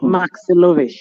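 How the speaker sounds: careful repeat of "Maxilovich" for a listener; pronunciation on request. Shown as a demonstration. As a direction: repeat "Maxilovich" distinctly, ending in "-vish". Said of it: "Can you pronounce it?".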